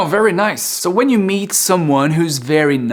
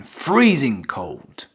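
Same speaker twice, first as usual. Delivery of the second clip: slow, stretched-out example phrase; slow and emphatic; drawn out; slower than usual. Shown as a demonstration. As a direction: draw out FREEZING with emphasis.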